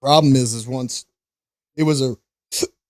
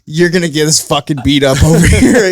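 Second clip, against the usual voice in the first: laughing cousin; 2 semitones higher, 7 dB louder than usual. Retold or imitated. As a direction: quote the cousin while laughing. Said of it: "my cousin looked at me".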